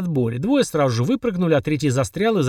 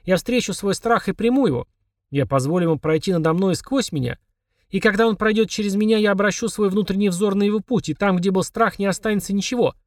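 raised pitch, measured incantation; litany recitation; 5 semitones higher than usual. A narrator's reading. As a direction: recite like a charm against fear. Twins reciting a litany against fear. (декламация заклинания, высоким голосом)

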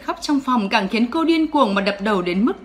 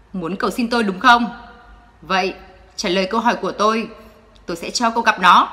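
icy cold; faster than usual. Acted. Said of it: "Anh lạnh tanh nói".

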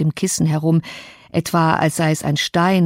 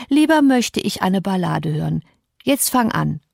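put-on demanding sick boy. Linden bossing Cathy to sit and recite, lightly voiced and petulant. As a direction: give orders like a pampered child.

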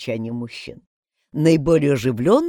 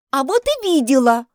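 put-on higher, louder childish protest; 10 semitones higher, 5 dB louder than usual. A narrator's reading. May protests she saw the mistress, insisting. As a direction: insist you did see her. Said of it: "запротестовала Мэй".

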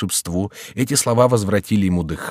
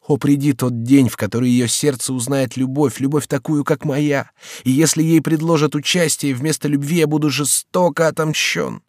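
raised, pleading voice of a despairing lover; passionate young count; 8 semitones higher, 4 dB louder than usual. A narrator's reading. Young count to the servant, in despairing outcry. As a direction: pour out the lover's despair, loud and high. Henri's vow of revenge.

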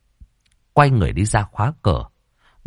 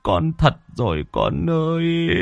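keen over the lost daughter; a father wailing at his daughter's coffin; father's lament; 9 semitones higher than usual. A narrator's reading.

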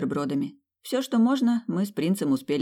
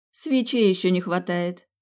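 smirking; 3 semitones higher, 3 dB louder than usual. Acted. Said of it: "усмехнулась я".

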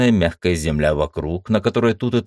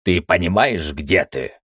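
hissing. Acted. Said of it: "прошипел".

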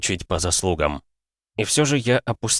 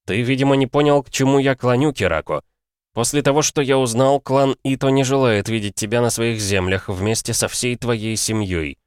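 slow; 5 semitones higher than usual. Acted. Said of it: "Я говорил медленно".

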